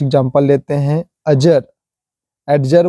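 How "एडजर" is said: "एडजर" with a clear d before j; what many people wrongly say: "एडजर"; wrong pronunciation. Shown as a demonstration. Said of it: "बोल देते हैं कई लोग".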